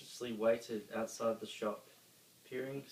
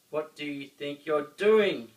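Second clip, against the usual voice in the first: loud indignant cry; 5 semitones higher, 13 dB louder than usual. A narrator's reading. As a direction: demand it in outrage. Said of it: "cried Grouch".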